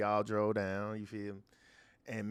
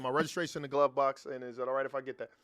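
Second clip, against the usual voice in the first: polite driver voice. Retold or imitated. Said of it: "I got a different type of voice".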